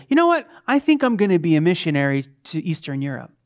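mock sudden inspiration. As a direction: play the overeager would-be missionary. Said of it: "you just wake up one day and say".

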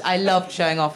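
ordinary talk

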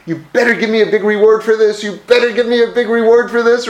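a mock complaint to God, pushed out fast; demanding complaint. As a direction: shake your fist and insist on the reward. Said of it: "shaking our fist at God".

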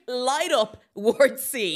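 loud, drawn-out demand; exasperated plea. Acted. Podcast host mock-ordering the film's guards, exasperated. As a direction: hammer it out slowly in exasperation.

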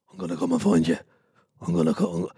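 rough put-on Irish accent, a movie-tough-guy quote; random Irish accent. Podcaster doing a rough Irish accent for a Liam Neeson movie line. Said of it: "random generischen irischen Akzent".

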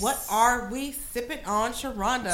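slow, drawn-out host presentation; measured show-host announcing; game show host. Real, not acted. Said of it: "You sound like a game show host".

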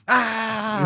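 mock shout. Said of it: "turn around and go".

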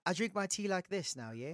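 amateur attempt at a British accent; Pommy accent. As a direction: lightly mimic a British tea drinker's accent. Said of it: "this Pommy accent".

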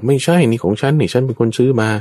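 thief's brazen high denial; defiant denial. Acted. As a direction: snap back that it's yours. Thief denies in the quarrel.

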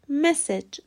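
slow, careful مسج as 'MESS-ej'; مسج ending in a short 'ej'; correct message pronunciation. Shown as a demonstration. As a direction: model مسج with short e in both syllables.

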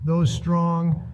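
lightly voiced Trump speech; Trump impression. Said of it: "that speech was pretty spot on. That's exactly what Trump would say".

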